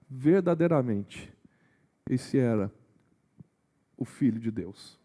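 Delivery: quiet, private realisation. Retold or imitated. Centurion speaking to himself as Jesus dies, quietly awed. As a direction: quote it hushed, as if only to himself. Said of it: "Essa fala é pra ele ali".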